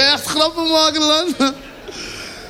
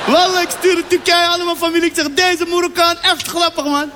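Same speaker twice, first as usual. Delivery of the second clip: put-on Turks accent; 4 semitones higher than usual. Turkish driver, higher voice.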